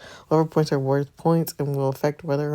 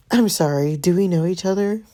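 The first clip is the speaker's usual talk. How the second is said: cool, dismissive put-down; haughty brush-off; 4 semitones higher, 3 dB louder than usual. Shown as a demonstration. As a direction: brush him off coolly. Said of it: "he seems like the type".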